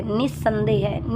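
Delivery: निसंदेह stretched, with a doubled s; slow spelling-out. Shown as a demonstration. Teacher slowly showing students the spelling. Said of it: "नी फिर आधा slate वाला से".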